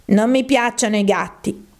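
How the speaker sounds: a mild, acted emotional protest; high-pitched, emotional. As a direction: voice a touchy little mouse. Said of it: "con voce acuta e piena d'emozione".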